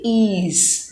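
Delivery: "ease" said slowly as a long ee sound, the wrong way; wrong yes sound. Shown as a demonstration. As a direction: drag out "ease" to show the mistake. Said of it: "which is wrong".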